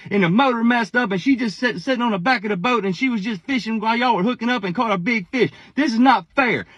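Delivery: high-pitched mock whine of an upset girl; imitated crying child. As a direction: imitate a pouting kid protesting to daddy. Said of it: "now she's crying".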